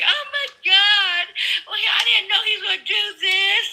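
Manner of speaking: sarcastic imitation of a voter caught out; mock whiny voter. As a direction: play a regretful voter for ridicule. Mocking regretful Trump voters.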